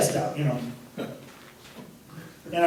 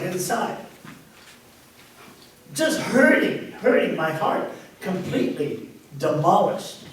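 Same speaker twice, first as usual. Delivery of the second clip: choked up; 2 semitones higher than usual. Real, not acted. Recalling his breakdown to the audience, choked up. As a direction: voice catching, near tears. Breaking down while retelling rehab.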